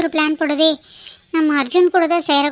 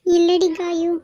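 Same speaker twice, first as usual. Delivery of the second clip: higher, tearful denial; crying; 5 semitones higher, much slower than usual. Acted. Caught crying by Kaayu, tearfully denying it. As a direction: try to brush it off while crying. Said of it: "ஏன் இப்படி அழுதுட்டு இருக்க?".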